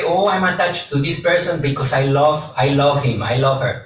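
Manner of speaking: lightly voiced attached lover, close to own voice; a hint of someone justifying themselves; mildly imitated "I love him" excuse; quoting a typical person. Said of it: "we sometimes say".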